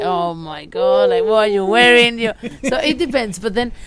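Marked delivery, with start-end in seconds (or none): 0.0-2.2 mock-appalled, dragging out the opening; acted catty aside; judgemental inner thought. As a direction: let the secret disdain show, pitch dropped from the fake greeting. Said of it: "in the inside you might be thinking".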